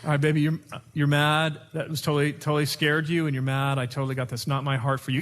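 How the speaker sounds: husband calming his upset wife. Shown as a demonstration. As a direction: settle her down gently.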